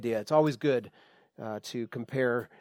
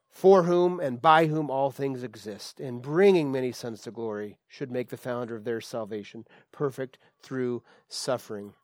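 scripture reading; 2 semitones lower than usual. Acted. Preacher reading the verse aloud to the church, solemn and emphatic. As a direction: lift the verse out for the congregation.

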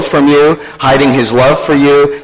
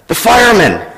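lightly voiced little boy, higher; hushed, childlike matter-of-fact reply; whispering small child; 7 semitones higher than usual. Small boy putting off a caller, hushed higher child voice. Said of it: "a small voice whispered".

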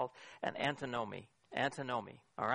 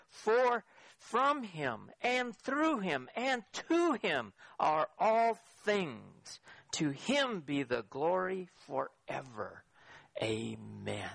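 solemn scripture declaration; much slower than usual. Acted. Preacher declaring Paul's verse to the congregation, solemn and slow. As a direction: proclaim it slowly, word by word.

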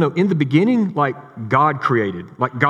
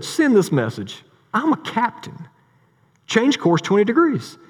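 indignant captain; 8 semitones higher than usual. Retold or imitated. Captain insists on his rank.

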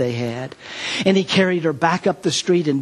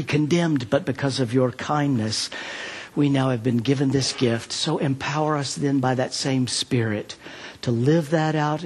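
prayer. Acted. Preacher praying for the congregation after the sermon, earnest and calm. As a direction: pray over the congregation.

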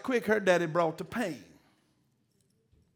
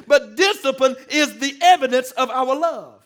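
preached line; 4 semitones higher, 8 dB louder than usual. Acted. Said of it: "It's the evidence of our love".

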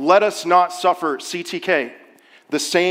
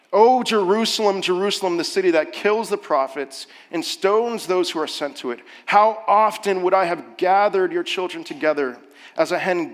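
louder, slowed lament over the city; 3 semitones higher, 5 dB louder than usual. Acted. Preacher reading Jesus's lament over Jerusalem. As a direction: mourn it like a grieving parent. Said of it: "give this great lament".

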